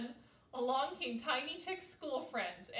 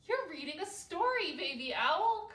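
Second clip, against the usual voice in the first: louder, eager little chick; excited cry; 5 semitones higher, 6 dB louder than usual. A narrator's reading. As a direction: cry out, thrilled about the story. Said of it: "cried Tiny Chick".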